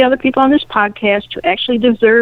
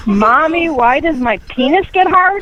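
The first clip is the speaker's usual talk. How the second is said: retold child shout; 5 semitones higher than usual. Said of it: "by shouting out".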